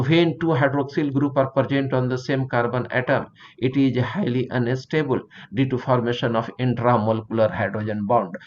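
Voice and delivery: very slow, even pace, spelling out the definition; slow note dictation. Acted. Teacher dictating notes to students, very slow and deliberate. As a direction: dictate it word by word so the class can write.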